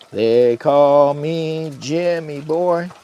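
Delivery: slow drawn-out branding announcement; slogan voice. Shown as a demonstration. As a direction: sell the name like a jingle. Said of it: "I am branding Jimmy Boy".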